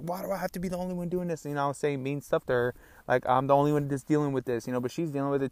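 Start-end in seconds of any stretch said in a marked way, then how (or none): 0.0-1.4 self-pitying whine. Retold or imitated. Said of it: "I'm just like".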